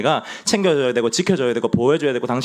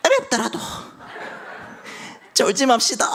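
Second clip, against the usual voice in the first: 어렵더라도 squeaked much higher in a mock elder voice; elder impression; 14 semitones higher than usual. Shown as a demonstration. Preacher has everyone copy Elder Baek, 어렵더라도 high and squeaky. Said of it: "백은철 장로님 따라하시는 겁니다".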